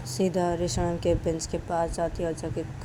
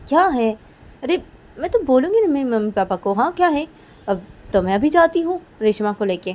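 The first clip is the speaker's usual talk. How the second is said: put-on loud, higher defiant girl; defiant Kajal; 4 semitones higher, 9 dB louder than usual. Kajal defying her friends, loud and insistent. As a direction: insist you will go right now.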